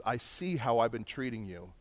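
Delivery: imitated confession, soft and low; subdued, contrite murmur; tearful confession. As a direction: confess quietly, voice dropped. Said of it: "he starts to cry".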